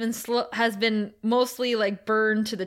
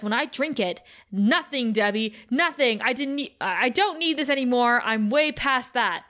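mock-angry retort, a little raised; retold rage; 2 semitones higher than usual. Boyfriend raging at girlfriend over his formula, acted-out anger. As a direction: act out his anger, partly held back. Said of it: "he starts shaking with rage".

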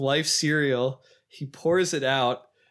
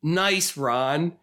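reproachful wife; 2 semitones higher than usual. Retold or imitated. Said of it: "the wife says".

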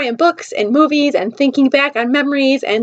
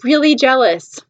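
ordinary talk, nothing marked

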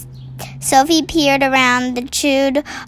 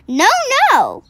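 frightened denial; 9 semitones higher than usual. A narrator's reading. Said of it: "cried the B F G".

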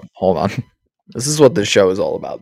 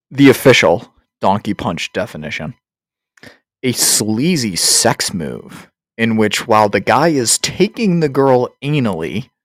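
mock-official read-aloud. Host reads crude definition to the boys, mock-official. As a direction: read it out with mock ceremony, stretching words.

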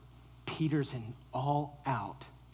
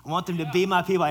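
loud, fast exclaim; rising shout; 5 semitones higher, 10 dB louder, much faster than usual. Acted. Jesus proclaiming he wants all peoples, shouting. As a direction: burst out with it. Climax of the build.

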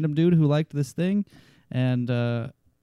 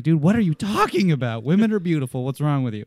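mock outrage; 2 semitones higher, 4 dB louder than usual. Retold mock outrage about women.

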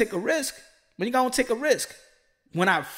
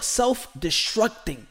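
normal talking voice

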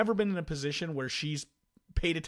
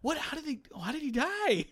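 much higher mock-naive question; mocking the wife; 13 semitones higher than usual. Husband mimicking wife asking how a rapper died. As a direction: ask it like a clueless wife.

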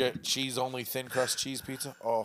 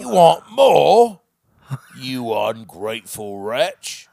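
wicked stepmother; 12 dB louder, much slower than usual. Acted. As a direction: roar it in horrified disbelief. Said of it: "radio dramas".

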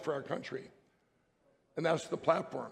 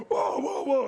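imitated crowd whoa; 6 semitones higher, 4 dB louder, slower than usual. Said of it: "And they all go".

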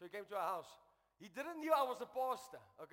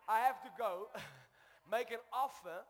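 exasperated; 6 dB louder than usual. Retold or imitated. Exasperated retelling of wife's demand.

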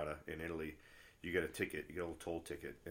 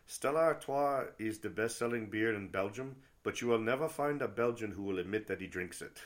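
rough attempt at a Belgian accent, pitched up; 5 semitones higher, 6 dB louder than usual. Quoting a buddy from Bruges on Stella, imitated Belgian accent. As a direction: imitate a Belgian friend, higher and louder in his accent. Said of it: "I can't do his Belgian accent".

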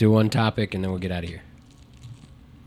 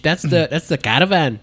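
put-on Scottish accent; 3 semitones higher than usual. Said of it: "And Scottish".

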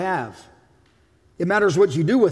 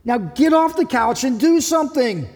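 God urging; 4 semitones higher than usual. Retold or imitated. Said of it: "And God's going".

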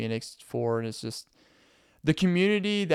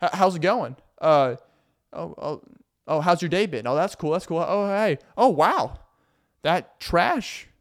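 lightly raised, sugary fake-casual hinting; passive aggressive hint; 3 semitones higher than usual. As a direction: drop hints about the trash, sweetly. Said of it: "they're just like".

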